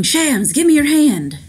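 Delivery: high, loud plea to grab hold; urgent call. Acted. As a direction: call out to someone in danger. Young man calling out in danger.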